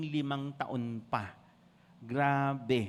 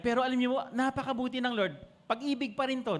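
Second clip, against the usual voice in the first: voiced thought; 9 semitones higher than usual. Pastor voices Hezekiah's inner thought.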